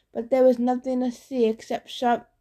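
ordinary delivery

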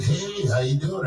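slow, odd, drawn-out hello; weird Andy Kaufman greeting. Retold or imitated. Jim Carrey as Andy Kaufman greeting a fan, slow and odd. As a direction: play it strange and slow, an actor stuck in character. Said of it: "he was acting weird".

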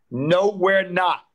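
slow, loud, certain; firm reassurance. Retold or imitated. Father reassuring his daughter during the pandemic, slow and firm. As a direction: settle her fear firmly.

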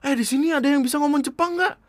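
high-pitched mock woman's question; female guard. Female guard asking her colleagues, high imitation voice. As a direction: put on a high voice calling out for help. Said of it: "salah satu penjaga cewek nanya".

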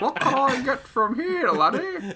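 chuckling, high put-on voice with a laugh; rich customer voice. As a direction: play a smug big spender. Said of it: "being like".

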